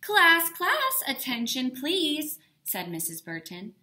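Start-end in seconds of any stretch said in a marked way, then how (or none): 0.0-2.4 a loud, high call for attention; calling class to order. A narrator's reading. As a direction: rap the room to silence. Principal calls class to order.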